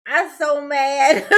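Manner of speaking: mock a grown man sulking; sulky Daryl. Commentator mocking Daryl's sulk at the judge, pouting. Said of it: "Daryl's like".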